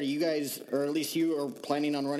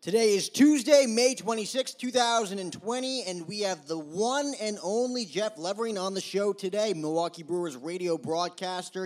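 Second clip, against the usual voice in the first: show intro announcer; 4 semitones higher than usual. Acted. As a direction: pump up the crowd for today's guest. Host's hyped show intro.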